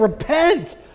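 mock furious, high, angry screaming yell. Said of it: "he was just screaming at them".

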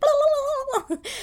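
excited, puppet-style babbling voice.

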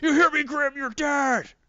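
very high, shrill, loud tough-guy shout. Retelling a comic scene where the prisoner threatens Grimm again: retelling a yell. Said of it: "And then he yells".

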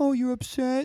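squeaky, very high, teasing, needling tone. Acting out how someone answers "I'm upset": imitating Stevie's mocking reply. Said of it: "That's what Stevie does when I say".

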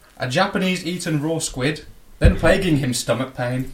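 ordinary talk

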